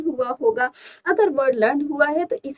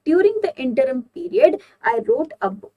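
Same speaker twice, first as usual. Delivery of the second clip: slow, deliberate example sentence; 3 semitones higher, much slower than usual. Shown as a demonstration. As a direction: read it out slowly like dictation. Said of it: "Usage in a sentence".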